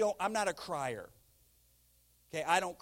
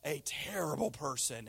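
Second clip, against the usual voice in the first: lower, mildly downcast mock self-blame; dejected self-talk; 5 semitones lower than usual. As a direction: act out someone down on themselves. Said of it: "if you have a bad moment".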